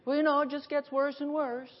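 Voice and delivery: lightly mocking pessimist; mock gloomy whine. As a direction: imitate a defeatist complaint. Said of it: "stop saying that".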